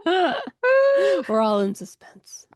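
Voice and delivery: hushed dramatic whisper. Pretend. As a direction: breathe it like a secret.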